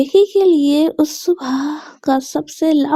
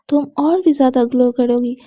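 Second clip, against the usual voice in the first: lovingly. Acted. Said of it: "mom प्यार से बोलती है".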